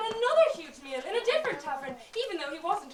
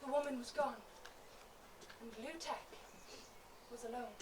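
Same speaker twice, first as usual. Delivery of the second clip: much softer and lower; hushed; 6 semitones lower, 13 dB quieter than usual. A narrator's reading. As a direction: let it fall to near silence. Sudden silence after the flash.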